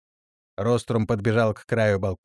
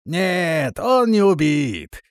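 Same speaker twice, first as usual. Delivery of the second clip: slow drawn-out reply, loud at the end; drawled; 5 semitones higher, 4 dB louder, much slower than usual. A narrator's reading. Grey old guard drawling to reassure the lady. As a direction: drag the words out lazily. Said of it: "протянул седой страж".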